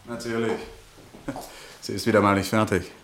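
ordinary delivery

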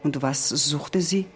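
measured storytelling with each parallel line landing evenly; story recitation. A narrator's reading. Narrator reciting what Heidi searched for, measured storytelling voice. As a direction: lay out the repeated "sie suchte" lines like a poem.

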